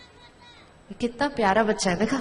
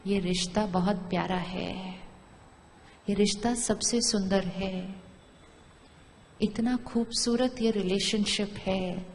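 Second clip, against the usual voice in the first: softer, slower loving words; soft affirmation; 3 semitones lower, 6 dB quieter than usual. Shown as a demonstration. Teacher modelling a loving thought, soft and slow. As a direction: murmur it like a blessing. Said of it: "अब हमने एक thought create करनी शुरू की".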